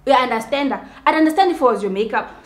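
worked-up shouting rant; heated rant. Real, not acted. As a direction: push it out, indignant and loud. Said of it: "Sorry if I'm shouting".

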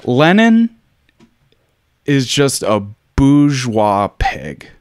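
LENIN burst out high and loud, the rest slow and scornful; hammed-up disdain; mock outrage. Real, not acted. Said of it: "objectivity is about to go right out the window".

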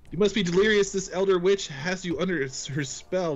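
voiced character. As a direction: dismiss them with cool authority. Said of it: "That wasn't a female voice".

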